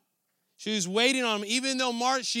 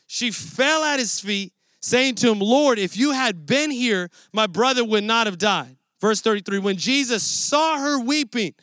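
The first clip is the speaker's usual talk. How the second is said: scripture reading. Acted. Preacher reading scripture to the church, steady and raised. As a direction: read the passage aloud to the congregation.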